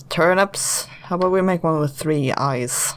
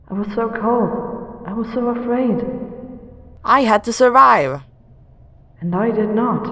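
ghostly twin; 5 semitones higher than usual. Acted. Drowned twin accuses the girl, eerie and mournful. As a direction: speak as the drowned twin, hollow and hurt.

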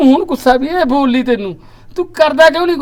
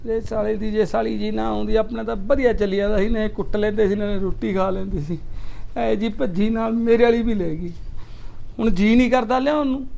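mock crying; 5 dB quieter than usual. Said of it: "ਬਾਈ ਬਣ ਕੇ ਰੋਈ ਨਾ".

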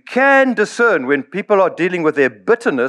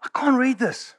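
a hint of an old apostle peering at scrawl, softer; lightly voiced Paul complaining he can't read Luke's notes; Paul squinting at notes; 9 semitones higher, 5 dB quieter than usual. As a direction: mutter it, straining to read bad handwriting. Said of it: "he says, like".

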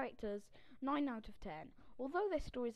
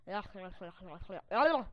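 frustrated grunts; 10 dB louder than usual. Real, not acted. Frustrated with a laggy mouse.

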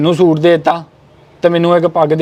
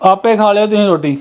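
angry; 2 semitones higher than usual. Acted. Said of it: "ਇੰਨੇ ਗੁੱਸੇ 'ਚ ਆ ਗਏ ਹੋ".

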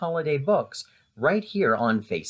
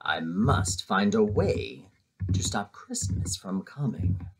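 growled; 7 semitones lower, 5 dB quieter than usual. A narrator's reading. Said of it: "Then he growled".

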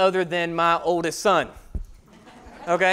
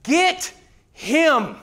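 higher mock yell; retold scream; 6 semitones higher than usual. Crowd screaming at a kids' game, mock yell. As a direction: shout it like the crowd. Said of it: "it's being screamed".

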